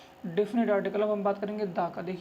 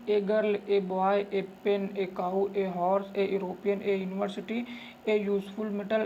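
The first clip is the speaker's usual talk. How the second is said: slow dictation; much slower than usual. Shown as a demonstration. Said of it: "example list".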